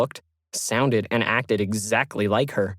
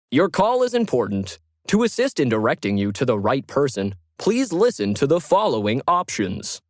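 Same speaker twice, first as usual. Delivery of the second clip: upbeat automated greeting, pitched up; cheery automated phone voice; 3 semitones higher than usual. Acted. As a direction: chirp it like a cheerful phone system. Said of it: "cheerily informed her".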